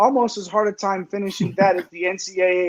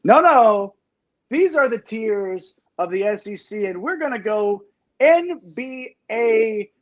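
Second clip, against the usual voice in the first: show announcer; 3 semitones higher than usual. Acted. Host unveiling the world famous tiers to the audience, announcer style. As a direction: hype it up, stretching the big words.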